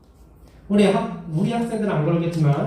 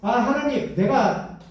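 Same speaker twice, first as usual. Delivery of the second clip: angry complaint; 4 semitones higher than usual. Retold or imitated. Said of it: "막 화를 내면서 이렇게 하는 거예요".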